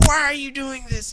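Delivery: high, shocked mock woman's voice; imitating the girlfriend. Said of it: "she goes, like".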